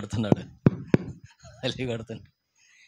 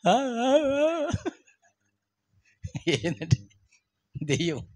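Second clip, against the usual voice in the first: terrified stammer; 10 semitones higher, 4 dB quieter, much slower than usual. Retold or imitated. Terrified man stammers to priest.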